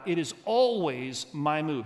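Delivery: "my" emphasized in a slow statement; slow down and land on "my"; stress on my. Shown as a demonstration. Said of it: "I want you to emphasize".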